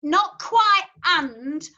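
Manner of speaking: slow "and" with a half-formed, almost N D sound; barely touch "and", close to just a D. Shown as a demonstration. Teacher showing how a singer sings the word and. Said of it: "Simon puts".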